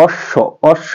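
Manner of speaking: "অশ্ব" with a doubled sh and sounded final vowel; doubled consonant. Shown as a demonstration. Teacher showing students why u-kar comes, doubled consonant. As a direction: hold the sh of "অশ্ব", then open the last vowel. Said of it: "আমরা এটা দূরে এরকম করি".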